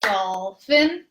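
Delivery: dolphin split into two even beats; dol-phin, one clap each; rhythmic clapping count; clapped syllables. Shown as a demonstration. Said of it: "or if you're clapping it".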